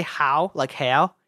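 "how" stretched toward an Aussie "hayow"; Australian-sounding HOW. Shown as a demonstration. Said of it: "it sounds like I'm Australian".

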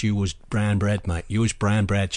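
light, slowed Cockney accent; a hint of London Cockney; Cockney slang. Shown as a demonstration. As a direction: drop into Cockney. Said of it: "I had to speak Cockney".

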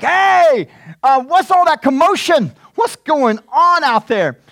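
high, loud puzzled calling out; curious older brother. Retold or imitated. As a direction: play the brother wondering about the noise. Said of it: "The brother was like".

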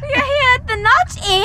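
put-on proper English accent. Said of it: "A very proper English accent".

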